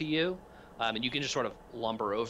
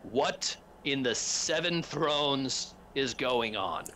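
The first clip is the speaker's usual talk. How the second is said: exasperated demand; 3 semitones higher, much slower than usual. Acted. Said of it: "he says".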